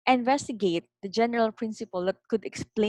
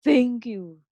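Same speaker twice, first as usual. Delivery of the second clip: moderately raised call; father's shout; 4 dB louder than usual. A narrator's reading. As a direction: call out thanks to the mountain. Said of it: "The father again shouted".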